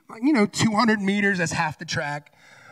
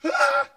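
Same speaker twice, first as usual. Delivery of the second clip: effort cry; 7 semitones higher than usual. Retold or imitated. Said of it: "And I just go".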